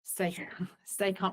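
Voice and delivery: slow whispered giggle through "stay calm"; breathless amused whisper, drawn out; laughing whisper. Real, not acted. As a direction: whisper it while cracking up at the irony. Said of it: "I'm laughing because stay calm".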